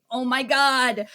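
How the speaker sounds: high, rushed, gushing apology; tearful apology. Retold or imitated. Voicing the remorseful friend after the mean outburst, high and gushing. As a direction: act out the friend taking back the insult. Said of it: "of just, like".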